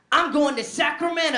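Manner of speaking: high, loud, laughing announcement; sudden giddy resolve; excited declaration. Retold or imitated. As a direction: blurt it out like a drunk adventure. Drunk impulsive declaration.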